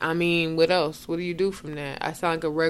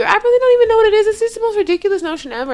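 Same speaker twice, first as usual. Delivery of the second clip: loud, high, rushed rant; fast, much higher and louder in fed-up frustration; exasperated outburst; 13 semitones higher, 10 dB louder, much faster than usual. Real, not acted. Friend venting about being told she sounds white, exasperated. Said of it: "I'm really tired of it".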